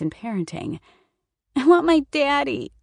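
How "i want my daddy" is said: put-on much higher and louder, a wailing little girl; crying child. A narrator's reading. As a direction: cry out for daddy. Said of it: "Sophie cried".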